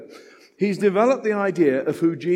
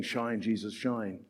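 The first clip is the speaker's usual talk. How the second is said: quoting a song; 6 semitones lower, 8 dB quieter, slower than usual. Retold or imitated. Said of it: "That famous song we used to sing".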